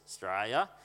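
Australia squashed into a slurred "Straya"; syllables run together. Shown as a demonstration. Showing the congregation how broad speakers combine syllables, run-together syllables. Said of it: "they tend to combine syllables".

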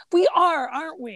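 high, hopeful mock-innocent question; sincere belief. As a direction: imitate someone who really believes it. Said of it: "he really thinks".

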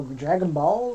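"Ball" leaned on with a lifted, rising tune; stress on ball. Real, not acted. Naming a childhood anime to friends, stress on "Ball". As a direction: give "Ball" the weight, rising at the end. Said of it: "I had to put emphasis on the ball".

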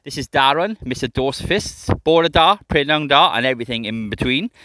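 booming ringmaster announcement; loud showman introduction. Pretend. Podcast intro announcer style.

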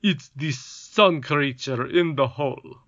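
slowed, lightly pompous complaint; a touch of royal indignation; solemn goblin king. A narrator's reading. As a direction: goblin king blaming the sun creature. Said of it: "with solemn indignation".

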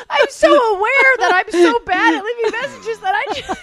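high, helpless laughing wail; laughing to tears. Real, not acted. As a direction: squeal it out through tearful laughter. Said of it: "I'm crying. I'm laughing".

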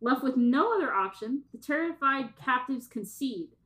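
measured read-aloud narration; synopsis reading. Acted. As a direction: read the plot blurb out with light drama. Reads out a synopsis.

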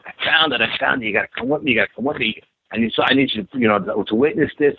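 blurting out the discovery, thrilled; excited. Retold or imitated. Friend bursting out of the swamp to tell him, excited. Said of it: "he's just off the charts".

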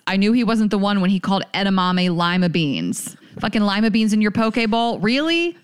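loose, tipsy outburst. Real, not acted. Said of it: "I'm tipsy thinking about all my failed relationships".

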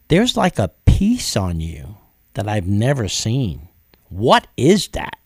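slow, hushed wonder in a lightly voiced Dolores; wondering waitress. Waitress Dolores noticing peace on him: slow, awed. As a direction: marvel at it slowly, as if seeing something strange.

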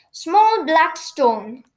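slowly, carefully repeating. Acted. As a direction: repeat it to memorise. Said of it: "said Noddy".

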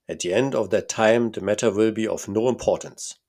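a lightly voiced Bohemian count, pompous; German-accented count. Count's voice in read story.

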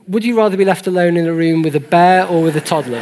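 chuckling through a smug question; smug sarcastic chuckling. Real, not acted. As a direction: asks it with a knowing laugh. Posing a joke thought experiment.

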